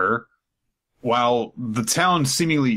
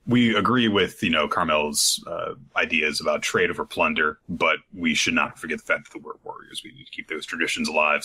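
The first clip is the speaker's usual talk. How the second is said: put-on low voice of old giant warriors, a bit faster at the end; lower-voiced old giant giving advice; 5 semitones lower than usual. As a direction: growl it like an elder warrior. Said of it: "they're like".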